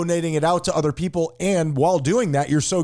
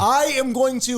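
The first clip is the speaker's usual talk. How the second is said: hammed-up gay-basher; 7 semitones higher than usual. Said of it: "what if you're like".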